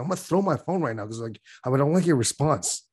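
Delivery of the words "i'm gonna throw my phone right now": higher, fed-up inner voice; exasperated. Retold or imitated. Reading his partner's reply, high exasperated thought. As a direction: throw the line up high in exasperation.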